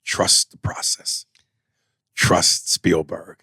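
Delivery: slow, hushed Kingsley counsel; lightly voiced Kingsley urging patience; imitating Ben Kingsley. Actor retelling Kingsley's advice to a colleague, slow hushed mock counsel. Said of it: "it was Ben Kingsley who told him".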